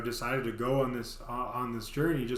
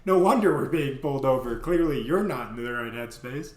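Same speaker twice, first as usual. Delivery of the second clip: louder, higher exasperated scold; 4 semitones higher, 5 dB louder than usual. Retold or imitated. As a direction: tell him off. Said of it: "And she goes".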